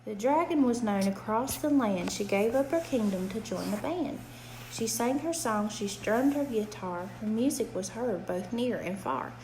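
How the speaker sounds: gentle sing-song bedtime reading; reading to a child. A narrator's reading. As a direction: read it like a rhyming bedtime book. Reads a rhyming picture book aloud.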